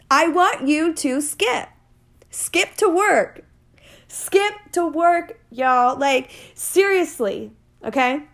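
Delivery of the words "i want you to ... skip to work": higher, slow and emphatic; excited urging. Real, not acted. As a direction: pump the listeners up to skip. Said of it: "urging listeners to skip".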